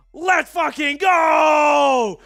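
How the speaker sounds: excited. Real, not acted. Hyped up reading the chats.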